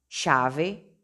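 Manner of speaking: chave with the ch said as sh, Rioplatense style; regional pronunciation. Shown as a demonstration. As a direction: chave as "shave". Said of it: "se puede decir".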